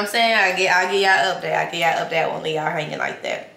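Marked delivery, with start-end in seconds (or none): 1.6-3.5 glass pressed to lips; speaking between sips of smoothie; talking while sipping a drink. Real, not acted. Seen 0: Glass of pink smoothie held at her lips throughout the words.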